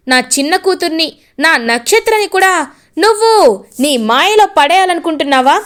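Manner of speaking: angry scolding. Acted. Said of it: "ఇంకా గట్టిగా చెప్తాడు".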